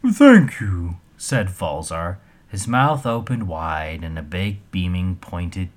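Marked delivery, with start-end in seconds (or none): 0.1-1.0 loud thanks. A narrator's reading. Troll thanks loudly.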